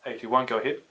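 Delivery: radio voice from control; crackly two-way radio reply; over walkie talkie. Acted.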